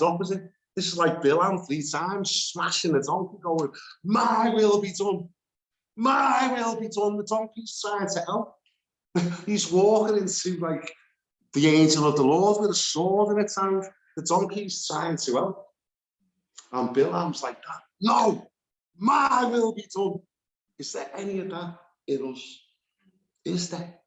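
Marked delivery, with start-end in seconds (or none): 4.0-7.2 1 stubborn insistence. Pretend. 18.0-20.2 1 defiant insistence. Pretend. Bilam insisting on his way.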